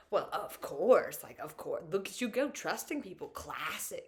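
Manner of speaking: slow, dry mocking tone; sarcastic self-blame. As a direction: roll your eyes at yourself. Sarcastically blaming herself.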